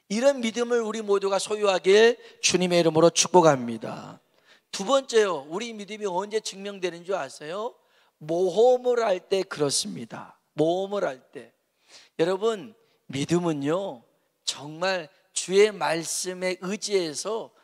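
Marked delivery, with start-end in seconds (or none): none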